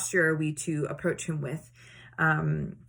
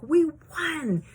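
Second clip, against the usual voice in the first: high, louder victory shout; triumphant cheer; 9 semitones higher, 4 dB louder than usual. Retold or imitated. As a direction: cheer like a winning team. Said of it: "They're like".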